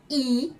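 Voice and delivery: I said open and clear; an open, bright-pitched "I". Shown as a demonstration. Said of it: "A I também é aberta".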